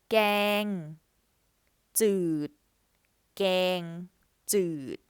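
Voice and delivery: gang จืด read out loud and clear, Thai tones; Thai word demo. Shown as a demonstration. Teacher modelling gang จืด for learners, loud and careful. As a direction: say gang จืด twice, crisp Thai vowels.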